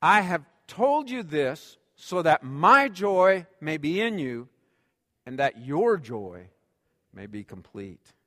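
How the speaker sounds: slow, deliberate congregational reading; reading together. Shown as a demonstration. Preacher leading the church in reading scripture, slow and deliberate. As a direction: read it slowly with the people, each word weighed. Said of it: "Read this last sentence with me".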